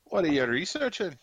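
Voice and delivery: curious orc with a Scottish lilt; horrible Scottish accent. Acted. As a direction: ask in a put-on Scottish accent. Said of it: "Competing with my horrible Scottish accent".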